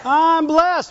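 proud call-and-response; congregation-style response. Shown as a demonstration. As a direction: answer back, I'm blessed.

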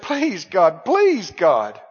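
acted plea rising on the third "please"; imitated begging. People grabbing Jesus by the leg, imitated begging. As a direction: beg harder with each "please". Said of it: "they grabbed his leg and said".

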